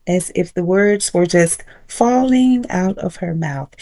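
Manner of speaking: soft, unhurried, drawn-out words; imitating a calm, commanding slow speaker; slow, powerful. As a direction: let each word fall slowly and quietly. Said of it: "she spoke so slowly".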